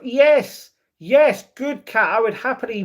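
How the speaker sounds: high, loud burst of enthusiasm; excited agreement. Real, not acted. Streamer agreeing to a France visit, excited. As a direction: cheer it loudly, pitched right up.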